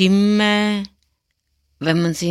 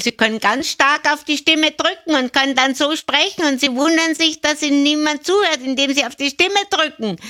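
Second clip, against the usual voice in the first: much higher, louder, squeezed and pushed voice; pressed voice demo; 10 semitones higher, 3 dB louder, faster than usual. Shown as a demonstration. Voice coach showing listeners a pressed voice, high and pushed. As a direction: press hard on the voice like a strained teacher. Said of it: "ich mach's gleich mal vor".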